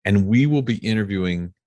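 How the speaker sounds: announcer-style bio read in measured phrases; scripted guest introduction. Acted. Host introduces a veteran CEO guest to listeners, scripted intro read. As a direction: present the guest's credentials with deliberate emphasis.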